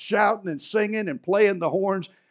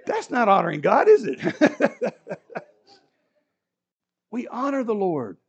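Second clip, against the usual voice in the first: ordinary talk, nothing marked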